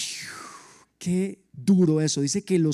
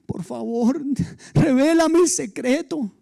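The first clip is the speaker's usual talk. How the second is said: high, laughing plea; pleading wife; 7 semitones higher than usual. Retold or imitated. Wife begs Samson to reveal the secret, high laughing plea. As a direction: beg sweetly for the secret, higher.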